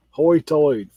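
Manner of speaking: Outer Banks brogue. Shown as a demonstration. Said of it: "but they say".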